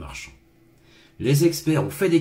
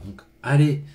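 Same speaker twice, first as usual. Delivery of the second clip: whisper; 3 semitones higher, 5 dB louder than usual. Real, not acted. Chuchote l'annonce de la lecture.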